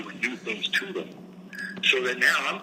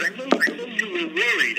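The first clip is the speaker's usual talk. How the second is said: squeaky mock voice. Mock voice teasing the host.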